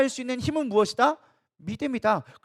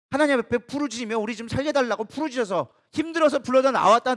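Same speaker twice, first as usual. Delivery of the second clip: normal talking voice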